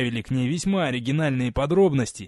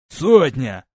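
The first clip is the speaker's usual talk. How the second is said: roaring rallying speech; 7 dB louder than usual. Acted. Legate addresses the company.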